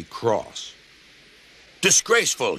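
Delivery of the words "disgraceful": spluttered. A narrator's reading. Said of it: "he spluttered".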